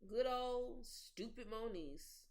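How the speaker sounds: slow, mocking drawl; sarcastic drawl. Real, not acted. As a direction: draw out the words in scorn. Mocking friend's name.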